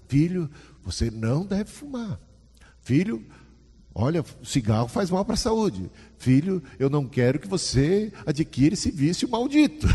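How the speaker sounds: lightly voiced father warning his son; father's lecture. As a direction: preach at the boy like a worried dad. Father lecturing son about smoking.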